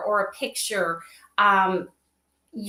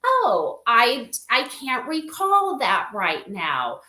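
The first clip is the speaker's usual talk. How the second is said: light mock of a forgetful companion, rising higher at the end; 5 semitones higher than usual. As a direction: play a gently puzzled AI asking for help. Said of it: "So it might say something like".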